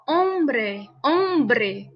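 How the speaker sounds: hombre with a firm b after the m; strong b in hombre. Shown as a demonstration. Teacher showing the strong b after a nasal. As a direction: press the lips hard on the b of hombre. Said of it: "após o M".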